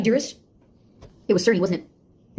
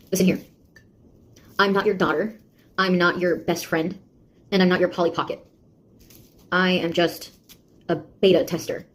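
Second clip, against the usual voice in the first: stern scolding; 2 semitones lower than usual. Acted.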